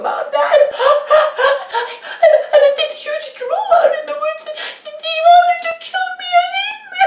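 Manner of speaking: put-on very high, loud frantic boy; sob-laughing terrified kid; panicked crying son. A narrator's reading. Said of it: "sweating and crying and panting".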